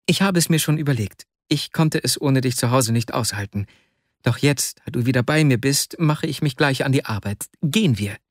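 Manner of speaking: troubled friend, lightly acted; a hint of an agitated young clerk; lightly voiced Vasja. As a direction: explain yourself to a worried friend. Acts Vasja answering Arkadi.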